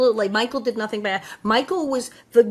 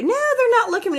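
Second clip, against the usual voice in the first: put-on girl's protest; 11 semitones higher, much faster than usual. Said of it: "girl's denial in retelling".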